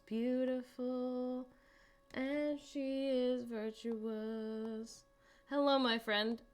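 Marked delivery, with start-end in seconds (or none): 0.1-5.0 slow, hushed admiration; mock reverent. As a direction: linger over each word like praise for a saint. Admiring the book cover.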